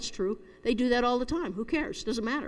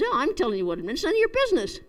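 irritated father, pitch jumping up on the rebuff; mild retold snap; 3 semitones higher than usual. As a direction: snap lightly at a nosy child. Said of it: "snapped at the little boy".

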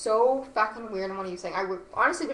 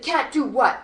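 retold angry comeback, louder and higher; raised, challenging voice, imitated; mock yell; 4 semitones higher, 6 dB louder than usual. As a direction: imitate him starting to yell. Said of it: "Instantly starts screaming at me".

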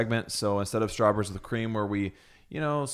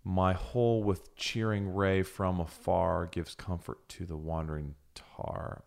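slow dictation; 2 semitones lower, 4 dB quieter than usual. Shown as a demonstration. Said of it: "I will read it again".

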